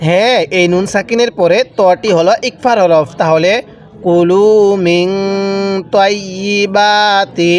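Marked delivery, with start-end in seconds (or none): 4.0-7.5 long drawn-out chanted recitation, every vowel stretched; slow Quran recitation. Shown as a demonstration. Teacher models the verse for students, slow drawn chant. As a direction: intone it slowly, as the teacher's model reading. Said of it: "কিভাবে পড়ব?".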